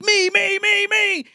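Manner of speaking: high squealing puppet chant; Fats. Retold or imitated. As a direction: imitate a dummy volunteering itself, insistently. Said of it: "then Fats is like".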